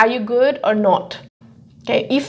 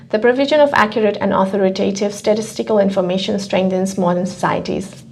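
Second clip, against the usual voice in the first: fast, a bit softer, reading the passage line; exam read-aloud demo; 5 dB quieter, faster than usual. Shown as a demonstration. Teacher demos the one-line read-aloud strategy for a colleague, read quickly. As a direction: rattle off the first line as in the exam. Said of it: "so something like this".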